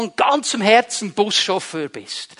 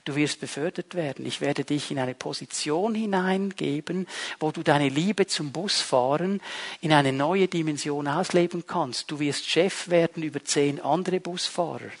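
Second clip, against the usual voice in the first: softer, slightly lowered voice of reassurance; the Lord answering; 3 semitones lower, 6 dB quieter than usual. Acted. The Lord promises a bus driver promotion, quietly reassuring. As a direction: gently promise something new, as God might. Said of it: "der Herr sagt dann vielleicht".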